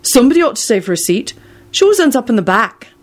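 high, good-natured explanation; kindly speaking up for her; agreeable. A narrator's reading. Neville on saving Luna a seat, agreeable. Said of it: "he replied agreeably".

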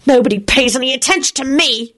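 put-on high, contained child's yell; yelled complaint. A narrator's reading. Timothy feeling ignored at the table, yelling. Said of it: "yelled Timothy".

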